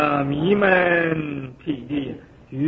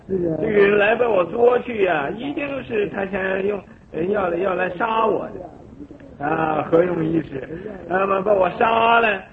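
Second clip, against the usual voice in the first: higher, anxious imagined worrying; fearful inner voice; 4 semitones higher than usual. Retold or imitated. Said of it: "自己这么想". (提高声调、惊恐地自言自语)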